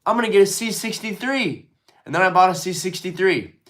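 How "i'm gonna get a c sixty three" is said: higher, fed-up kiss-off; mock defiance at friends; defiant brush-off. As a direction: shrug them off and buy it anyway. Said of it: "I was like".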